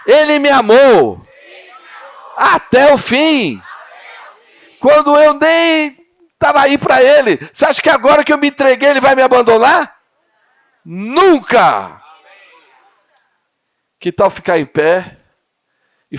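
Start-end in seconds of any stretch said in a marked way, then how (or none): 0.1-12.0 full-force preaching. Real, not acted. Preacher shouts God's love to the youth at full force. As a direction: preach it with everything you have.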